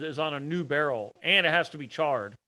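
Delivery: choppy, dropping signal; radio breaking up. Real, not acted. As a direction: call audio cutting out. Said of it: "You're cutting out".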